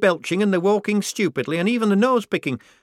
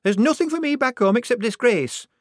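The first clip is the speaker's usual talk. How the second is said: much higher, louder defiant outburst; rounding on her; 11 semitones higher, 5 dB louder than usual. Acted. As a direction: refuse fiercely, near tears. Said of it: "rounding on her".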